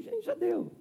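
tired, resigned "já deu" repeated; weary sigh. Retold or imitated. Pastor voicing his burnout, tired and resigned. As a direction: let it out like someone worn down. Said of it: "era aquela sensação assim".

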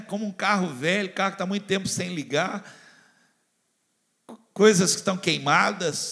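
normal talking voice

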